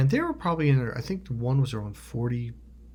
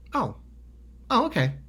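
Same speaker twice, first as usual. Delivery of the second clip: high, light mock-casual acceptance; sudden calm shift; 8 semitones higher than usual. Friend seeing the check, suddenly casual. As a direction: switch to breezy, as if nothing happened. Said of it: "And he totally shifted".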